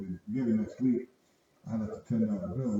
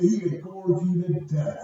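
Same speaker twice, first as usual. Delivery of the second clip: voicing old coworker; 7 semitones higher, 8 dB louder than usual. Old coworker voiced in story.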